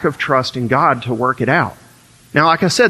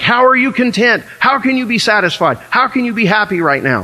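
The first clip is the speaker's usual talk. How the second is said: incredulous questioning; 5 semitones higher than usual. Retold or imitated. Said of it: "people who aren't content look at contentment. They're like".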